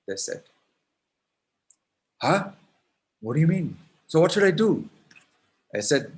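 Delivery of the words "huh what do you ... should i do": baffled Krishna. Acted.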